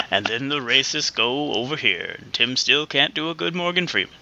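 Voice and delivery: a lightly voiced Freeman nature narration; nature narrator. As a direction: narrate like a wildlife film, slowly. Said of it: "a narrated ver".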